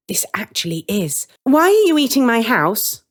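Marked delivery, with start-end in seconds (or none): 1.4-3.0 put-on high, louder, jolly old woman; jovial. Woman catching children eating her house, jovial. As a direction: boom it out, cheerfully teasing. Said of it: "in a jovial tone".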